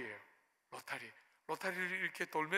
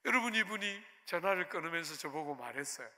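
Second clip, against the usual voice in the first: ordinary talk, nothing marked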